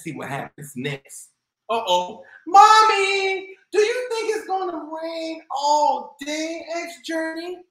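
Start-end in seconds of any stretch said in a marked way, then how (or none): 2.5-6.7 put-on high little girl's question; child voice. Girl asks mom about the rain, childlike. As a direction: ask like a worried child.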